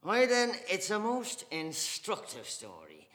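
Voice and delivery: loud, high, swelling pride; proud defiance. Acted. Mr Casey defending his Catholic faith to Dante, proud and loud.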